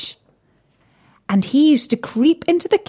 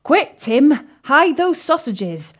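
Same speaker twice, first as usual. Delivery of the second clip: croaking frog; 7 semitones higher, slower than usual. Acted. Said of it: "croaked Bertie".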